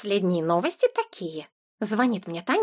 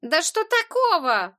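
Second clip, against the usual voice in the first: higher, slow indignant retort; 7 semitones higher, slower than usual. A narrator's reading. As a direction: stretch it out, offended. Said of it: "возмутилась в свою очередь Ангелина".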